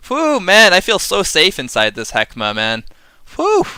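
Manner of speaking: mock relief, pitched high on the whews; hammed-up sigh of fake comfort; sarcastic. Sarcastic joy over a useless card. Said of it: "I am being sarcastic".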